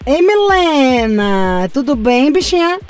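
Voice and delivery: put-on slow, drawn-out Bahia accent. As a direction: greet her in a Bahia accent. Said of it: "Vai manter o sotaque da Bahia". (sotaque baiano arrastado)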